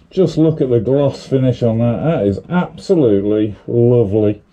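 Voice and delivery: muffled through a paint mask; talking through a face mask. Real, not acted. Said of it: "Sorry if I sound a bit muffled".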